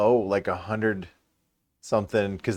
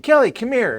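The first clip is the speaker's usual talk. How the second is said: high, loud summons; raised-pitch holler for a partner; calling out; 14 semitones higher, 7 dB louder than usual. Retold or imitated. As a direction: call someone over from another room. Reenacts calling partner from off camera.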